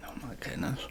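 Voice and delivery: breathless whisper of awe. Real, not acted. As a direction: whisper it in amazement. Reacting, whispered.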